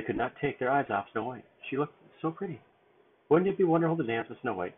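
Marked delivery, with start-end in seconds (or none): 3.3-4.7 happy dwarf voice. Acted. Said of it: "Happy asked".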